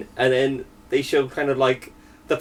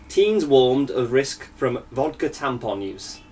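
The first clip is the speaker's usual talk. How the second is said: reading a headline; slower than usual. Real, not acted. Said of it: "the headline is".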